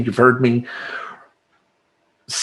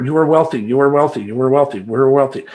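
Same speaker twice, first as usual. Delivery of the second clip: repeated affirmation; faster than usual. Shown as a demonstration. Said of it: "Say it over and over".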